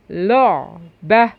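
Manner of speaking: "لعبة" drawn out very slowly; slow demo reading. Shown as a demonstration. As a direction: stretch out "لعبة" for the kids. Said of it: "اللو اللي عليها ضمة".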